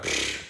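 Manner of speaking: dismissive puff of air; imitated pfft. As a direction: blow a short voiceless pfft. Imitates noise while peeing.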